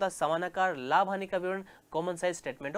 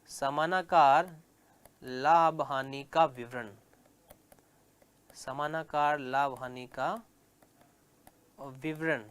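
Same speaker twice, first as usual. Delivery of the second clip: dictating the heading to note-takers; slow dictation; 5 semitones lower, slower than usual. Shown as a demonstration. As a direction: give students time to write each word. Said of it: "dictating heading slowly".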